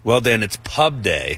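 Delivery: hushed, dramatic golf announcer; a touch of a TV golf broadcast; golf commentator voice. Acted. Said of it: "is that your golf voice?".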